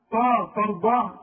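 تا تخلقون ببطء وتاء مفخمة; مد التاء ثقيلة كالطاء; slow heavy ta demo. Shown as a demonstration. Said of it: "تقول على الت الرقيقة طا". (تاء مفخمة خاطئة ببطء)

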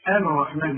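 الرحمن with the ل said out loud; the mistake of voicing the lam in الرحمن; wrong clear lam. Shown as a demonstration. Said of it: "فما تقولش". (إظهار اللام الخطأ)

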